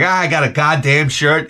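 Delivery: understated angry complaint about a gift; mild mock anger. Shown as a demonstration. Someone complaining about a Christmas gift, mildly angry. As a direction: grumble it with a touch of anger. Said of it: "somebody would say that angry".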